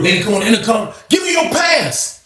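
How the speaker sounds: inmate yelling at the guard over the intercom; demanding call to the guard. Retold or imitated. Mel shouting to guard.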